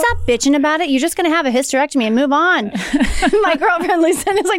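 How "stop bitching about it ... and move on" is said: mildly impatient, slightly raised pitch; retold scolding. Daughter telling mom to stop bitching, mock scolding. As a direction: nag her to get on with it.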